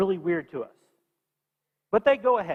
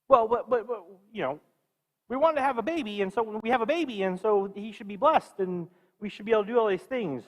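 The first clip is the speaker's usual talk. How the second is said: pleading excuse; 3 semitones higher than usual. Retold or imitated. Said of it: "they look at it like".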